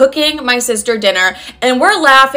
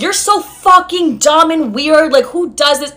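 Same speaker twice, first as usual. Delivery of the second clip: mild mock exasperation, pitched up; retold pissed-off outburst; 4 semitones higher, slower than usual. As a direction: lean slowly on the insult, half-angry. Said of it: "and I'm getting pissed".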